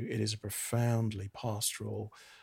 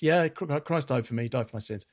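offhand and breezy, starting higher; casual shrug; 4 semitones higher, 3 dB louder than usual. Retold or imitated. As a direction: toss it off like routine knowledge. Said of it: "Not just".

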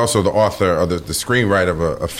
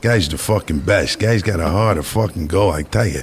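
lightly voiced streetwise guy; a hint of a gruff New Yorker; tough New York guy. Describing the man who raised him, in a light tough-guy voice. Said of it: "talks like this all fucking day long".

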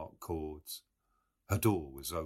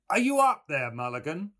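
much higher, loud call from inside; calling loudly; 11 semitones higher, 10 dB louder than usual. A narrator's reading. Voice inside the tower calling up to Mulligan, loud. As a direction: call up the stairs. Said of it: "called loudly".

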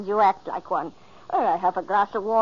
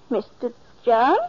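louder, rising call of the name John; alarmed call; 4 semitones higher, 7 dB louder than usual. Acted. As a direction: call out, starting to worry. Calling louder, no answer.

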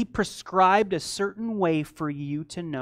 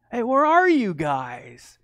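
drawn-out searching call, raised a little; playful calling out; 4 semitones higher, 5 dB louder, slower than usual. Acted. God looking for Adam and Eve, playfully calling out. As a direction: call slowly as if playing hide and seek.

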